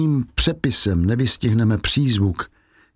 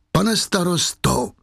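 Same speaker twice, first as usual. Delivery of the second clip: high, drawn-out appeal; crying out; 6 semitones higher, slower than usual. A narrator's reading. Frightened woman calls to the mayor, crying out. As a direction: cry out to him, slowly and high. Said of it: "vykřikla Fantina".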